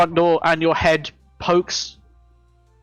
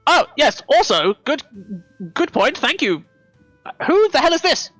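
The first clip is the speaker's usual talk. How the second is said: pixie; 4 semitones higher than usual. Acted. GM voicing the NPC.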